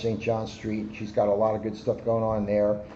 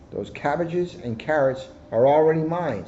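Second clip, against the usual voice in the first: smug hare; 6 semitones higher, 3 dB louder than usual. Acted. Hare boasting about the prize.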